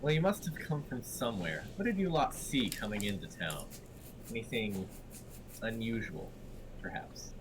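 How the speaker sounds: bad Irish accent. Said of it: "bad Irish accent".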